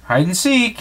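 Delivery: a playful high mouse squeal. Acted. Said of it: "he squealed".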